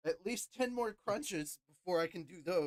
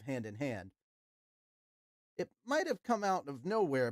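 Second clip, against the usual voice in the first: lively, acted story reading; story read-aloud. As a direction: read the tale out with flair.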